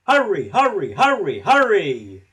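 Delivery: loud, high, mocking chant; laughing. A narrator's reading. Gordon laughing at Thomas as he speeds. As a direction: taunt him with glee. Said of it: "laughed Gordon".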